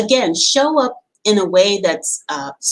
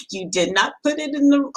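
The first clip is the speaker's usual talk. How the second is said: breaks into a high laugh as she quotes her mother; real laughter spilling over the words; 5 semitones higher than usual. Real, not acted. Telling viewers her mother's cake scolding, laughing.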